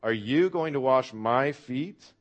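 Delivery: slow, loud disbelief with YOU and MY punched; incredulous. Acted. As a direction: ask it stunned, drawn out, rising at the end. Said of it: "Peter is actually rather incredulous".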